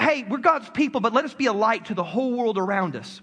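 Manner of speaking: even, earnest invitation; mean it, reach out to the world; sincere calling. Retold or imitated. Preacher states Israel's true mission, sincere and even. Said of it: "It was about".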